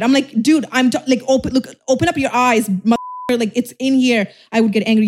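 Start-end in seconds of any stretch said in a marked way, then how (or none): 0.4-4.3 re-enacted exasperated outburst; mock rage. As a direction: snap as if losing patience, moderately. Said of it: "You see how my rage comes up?".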